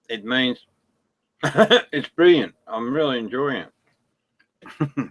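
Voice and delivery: talking while crunching snacks; words round a mouthful of chips. Real, not acted. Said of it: "Sorry about the crunchy crunch".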